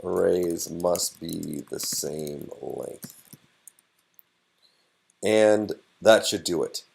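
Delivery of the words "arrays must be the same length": slowly reading out the error message; error message readout. Shown as a demonstration. Coder reads the error message aloud, slow and deliberate. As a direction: spell out the error text. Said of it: "we can say something like".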